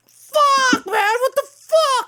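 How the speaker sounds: high, strained voice of a student jolted awake; groggy student cursing. Retold or imitated. Teacher slams book, startled sleeping student curses at him. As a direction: play the rudely woken kid, swearing in shock. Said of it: "And he's like".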